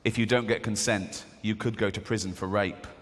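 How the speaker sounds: low-pitched, mock-serious announcer; advert voiceover. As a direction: lightly imitate a public-warning voiceover. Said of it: "And the voiceover goes".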